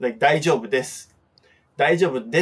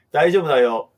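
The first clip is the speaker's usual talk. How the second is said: reassuring okay; 4 dB louder, faster than usual. Shown as a demonstration. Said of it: "hand gesture".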